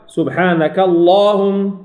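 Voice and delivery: slow «سبحانك اللهم» with a heavy L; lam enfático. Shown as a demonstration. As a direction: hold the dark long vowel in اللهم. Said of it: "أفخم".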